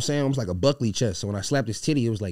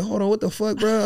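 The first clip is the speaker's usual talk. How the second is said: angry outburst; 11 semitones higher, 6 dB louder than usual. Retold or imitated. Confronting the manager, heated retold.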